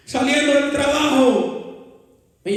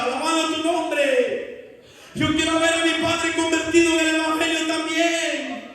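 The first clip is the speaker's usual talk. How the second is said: tearful pleading cry; 2 semitones higher than usual. Retold or imitated. Daughter crying to God to heal her dying father, pleading. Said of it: "empezaba a llorar como un niño".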